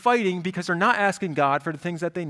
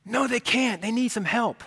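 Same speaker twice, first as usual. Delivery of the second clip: put-on higher pleading teenage son; whiny teen son; 7 semitones higher than usual. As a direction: protest like a sulky teenager. Acted father-son quarrel.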